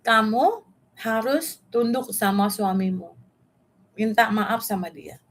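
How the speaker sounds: measured, slow-paced command; God's instruction. Retold or imitated. God tells Eva to submit to her husband, slow and measured. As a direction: deliver it as an even, deliberate instruction. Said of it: "Ngomong sama aku satu hal".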